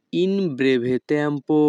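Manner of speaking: each Italian word spoken slowly and clearly; teacher modelling Italian for learners, very slow; slow demo. Shown as a demonstration. Bengali teacher models Italian phrase for students, slow and careful. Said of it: "Italian ভাষা".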